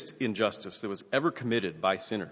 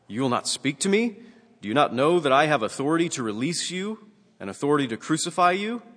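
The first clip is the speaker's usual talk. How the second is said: raised, insistent challenge as Pilate; indignant questioning; 5 semitones higher, 6 dB louder than usual. A narrator's reading. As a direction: press the question with loud authority. Acted quote, Pilate challenges Jesus.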